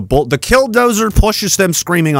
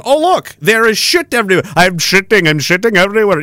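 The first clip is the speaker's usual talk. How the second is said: playful mock alarm; mock discovery; 3 semitones higher than usual. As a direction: act out a silly, exaggerated discovery. Acting out discovering the mess.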